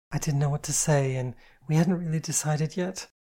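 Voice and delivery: lightly voiced shy girl; timid, hesitant girl; shy young woman. Voices Kitty.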